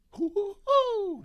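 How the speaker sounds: very high, slow, loud cartoon hoot; Tigger hoot. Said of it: "That was terrible".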